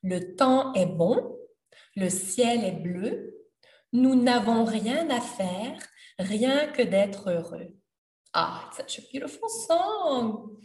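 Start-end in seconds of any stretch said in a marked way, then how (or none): 0.0-7.7 "le temps est bon" recited slowly, line by line; slow lyric reading. Shown as a demonstration. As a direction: read the chorus slowly and clearly for learners.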